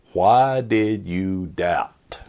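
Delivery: slow, searching question as Jesus; Jesus asking gently. Retold or imitated. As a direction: ask it slowly, like Jesus reaching out. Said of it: "he asked the question".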